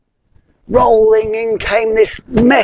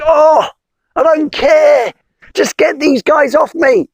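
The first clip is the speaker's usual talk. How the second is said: high, pushy frog; impatient frog; 8 semitones higher than usual. Acted. Frog urging the wizard, high and impatient.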